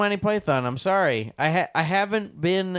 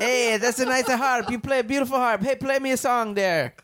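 Chico impression; 4 semitones higher than usual. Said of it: "Michael Palin as Chico".

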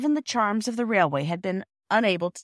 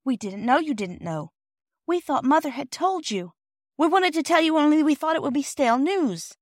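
put-on high, earnest child voices; protesting children; 9 semitones higher, 3 dB louder than usual. Children explaining themselves to the porter, high and earnest. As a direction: explain in a pitched-up, anxious rush.

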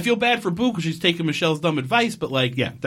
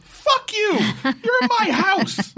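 angry mock outburst; slower than usual. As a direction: shout it like she's invaded your home. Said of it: "That made me very angry".

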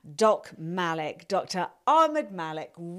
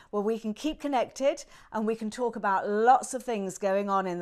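ad read. Acted. Inserted newsletter ad.

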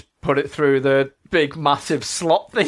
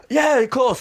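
boss's reply; 11 semitones higher than usual. Retold or imitated. Boss replying.

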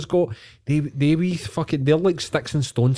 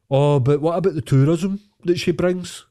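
mildly mocking royalist, higher; mock unionist; 4 semitones higher than usual. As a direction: parrot the royalist line in a mock voice. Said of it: "what I also hate is".

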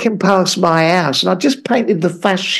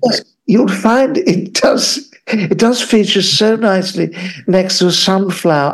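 mock Monty Don. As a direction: savour each word like a TV gardener.

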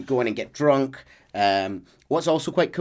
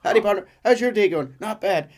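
friendly cowboy chat; 8 semitones higher, 4 dB louder than usual. Retold or imitated. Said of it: "greet, will go".

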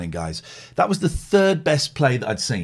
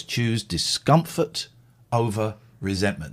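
slow emphatic quote; 5 semitones lower than usual. Retold or imitated. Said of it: "Brené Brown says".

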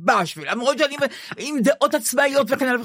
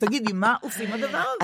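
laughing through the question, softer; softer words through real laughter; 5 dB quieter than usual. Real, not acted. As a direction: giggle it out, self-mocking. Laughing at her own helplessness.

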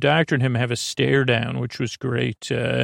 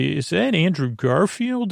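higher, delighted disbelief; pleasant surprise; 4 semitones higher than usual. Retold or imitated. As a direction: ask it like you can't believe your luck. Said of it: "so that was a pleasant surprise".

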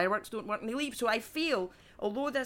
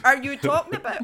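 loud, higher comic indignation; incredulous outrage; 5 semitones higher, 8 dB louder than usual. Acted. Comedian challenging a doctor's report, loud incredulous outrage. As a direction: demand it in loud, incredulous protest.

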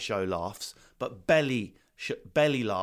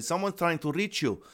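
beach guy calling; 7 semitones higher than usual. Retold or imitated. Beach guy running with phone.

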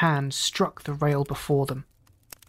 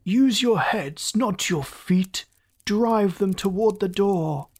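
raging slowly; 4 semitones higher, slower than usual. Acted. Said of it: "he raged".

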